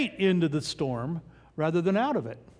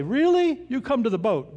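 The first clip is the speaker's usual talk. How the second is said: mock disbelief tossed back at Jesus; mock incredulous; 4 semitones higher than usual. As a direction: scoff at the idea, half joking. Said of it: "I'd say".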